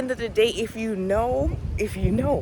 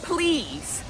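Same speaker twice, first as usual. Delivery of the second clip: slow, earnest begging; passionate pleading; 3 semitones higher, slower than usual. Real, not acted. Begging viewers to watch Eyes Wide Shut, passionately. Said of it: "Sorry, I'm getting passionate".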